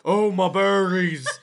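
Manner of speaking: mock wailing. Gnome wails at Hobie.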